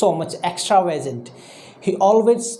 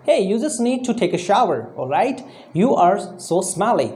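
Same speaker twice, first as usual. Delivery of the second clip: mock complaint. Shown as a demonstration. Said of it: "we have to sound like".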